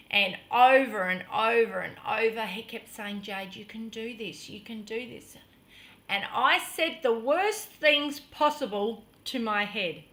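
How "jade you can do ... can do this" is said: soft, low coaxing; patient reassurance. Retold or imitated. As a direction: gently encourage someone who is scared. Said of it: "he was so patient".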